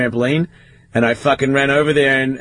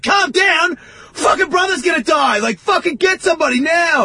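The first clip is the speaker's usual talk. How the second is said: furious shout. Retold or imitated. Teen yelling at unbothered clinic staff, furious panic. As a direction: shout back in disbelief.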